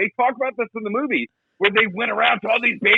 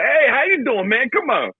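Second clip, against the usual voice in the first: higher, hearty mock greeting; mocking imitation; 6 semitones higher than usual. Actors replay their greeting in the bloopers, mocking imitation. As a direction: imitate an overfamiliar bro greeting. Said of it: "they're ripping off each other".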